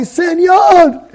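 loud high shout across the store; calling out. Retold or imitated. Man shouting to a janitor behind closed shop doors. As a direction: shout to get the worker's attention.

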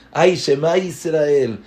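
un "ay" de asombro, más alto y fuerte; asombro exclamado. Retold or imitated. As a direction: exclama con sorpresa. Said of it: "la persona se asombra". (persona asombrada ante algo: exclamación de asombro)

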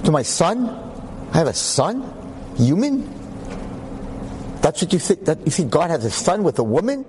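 offended God. Retold or imitated. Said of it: "God's like".

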